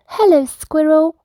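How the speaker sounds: high little mouse calling up cheerfully. Acted. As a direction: call out friendly from the branch. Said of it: "Mouse called down".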